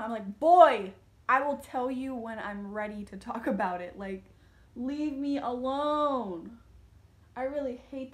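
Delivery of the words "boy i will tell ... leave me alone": put-on teen fed up with her mom's questions; annoyed retort. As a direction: bite back at mom, then stretch it out. Snapping back at mom.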